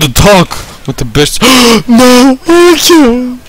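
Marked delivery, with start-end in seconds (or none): 1.4-3.4 gasping high cry of a name; man down shout. Real, not acted. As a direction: scream for a fallen buddy. Teammate Angel killed in game.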